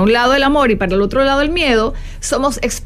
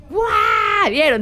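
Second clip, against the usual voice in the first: excited wow; 4 semitones higher, much slower than usual. Real, not acted. Reacting to her own joke.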